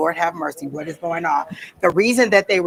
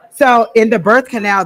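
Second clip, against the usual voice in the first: laughing burst; 5 semitones higher, 9 dB louder than usual. Real, not acted. Laughing, louder restart.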